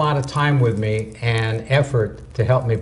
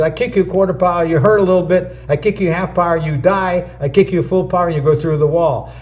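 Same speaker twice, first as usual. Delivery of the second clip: higher, measured master's lesson; a hint of the old master teaching; lightly voiced master; 4 semitones higher than usual. Master explains his kick to the student, higher.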